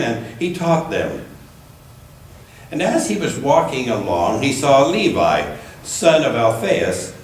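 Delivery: measured, deliberate Bible reading; unhurried lectern reading with gentle emphasis; scripture reading. Acted. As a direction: read the Gospel to the congregation. Reads scripture passage aloud.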